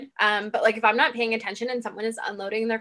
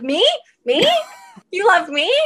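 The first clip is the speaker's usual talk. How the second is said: higher and louder, giddy questions; thrilled dog voice; 9 semitones higher, 8 dB louder than usual. Retold or imitated. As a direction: voice the dog unable to believe she's loved. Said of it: "And Layla was like".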